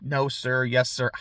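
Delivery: put-on very polite boy, low and softened; Theo. Polite boy answering a villain, low deferential voice. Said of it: "Theo's very polite the entire time".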